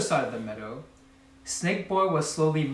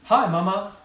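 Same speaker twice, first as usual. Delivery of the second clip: bright, higher, louder hello to mama; happy greeting; 5 semitones higher, 6 dB louder than usual. A narrator's reading. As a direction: greet her cheerfully. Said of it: "Frogchild croaked happily".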